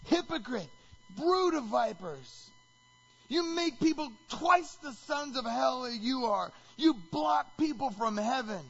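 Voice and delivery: high, loud and slow denunciation; angry tirade. Acted. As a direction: hammer each charge. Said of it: "Wave after wave after wave".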